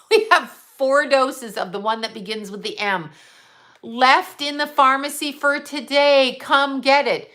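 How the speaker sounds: mock the pushy pharmacy call; pharmacy lady selling doses over the speakers; mock intercom announcer. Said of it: "on the intercom".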